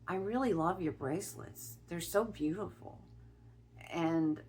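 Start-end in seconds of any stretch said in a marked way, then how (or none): 0.1-3.0 imitating a woman's British accent; lightly put-on British accent. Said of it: "in her British accent".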